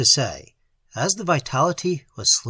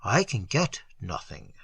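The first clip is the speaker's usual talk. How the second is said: softer, lower near-whisper; almost a whisper; 5 semitones lower, 5 dB quieter than usual. A narrator's reading. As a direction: breathe it out, defeated. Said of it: "came almost in a whisper".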